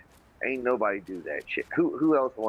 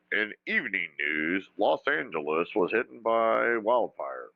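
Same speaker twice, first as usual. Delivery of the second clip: newsreader voice. Retold or imitated. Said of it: "Think of national news people".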